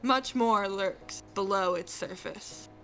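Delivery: lightly voiced Ford. Voicing Ford, dramatic read.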